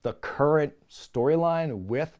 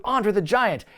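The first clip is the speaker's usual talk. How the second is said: "Andre the Giant" raised and unbroken; promo-style name drop; 6 semitones higher than usual. Retold or imitated. First mention in recapped promo.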